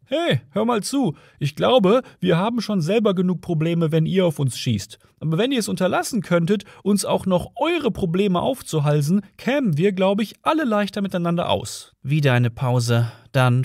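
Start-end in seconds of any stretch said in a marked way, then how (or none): 0.1-11.9 high-pitched annoyed calling out; mild yell. A narrator's reading. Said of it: "Ford brüllte los".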